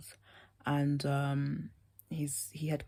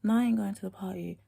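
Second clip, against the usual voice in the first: put-on American accent; 4 semitones higher than usual. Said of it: "got proper American voice".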